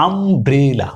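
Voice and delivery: আমব্রেলা opened on a short আ; slow demo of আমব্রেলা; umbrella with আ. Shown as a demonstration. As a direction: say আমব্রেলা slowly from আ. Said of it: "ইউ এর sound কেমন পেয়েছি? আ".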